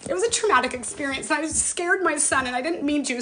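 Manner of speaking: high-pitched, upset recollection; emotional. Real, not acted. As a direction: recall the scare with emotion welling up. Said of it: "Look at how emotional it gets me".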